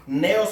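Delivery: "Neos" with a firm first syllable, NE-os; stress on the E. Shown as a demonstration. Preacher showing the accent, "Neos" stressed on E. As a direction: hit the E in "Neos". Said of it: "con acento en la E".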